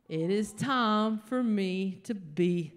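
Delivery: slow, deliberate mock-butch declaration; mock tough. The comedian psyching herself up to protect her family, mock tough. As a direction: steel yourself, tongue in cheek.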